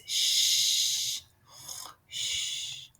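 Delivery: soft, fading shush; breathy shh dying away. Acted. Hushing so bear won't hear.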